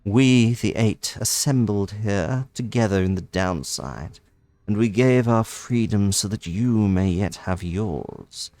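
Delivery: lightly voiced noble bird lady, wistful; gentle bird lady. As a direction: speak like a caged sage granting freedom. Voices the bird lady's message.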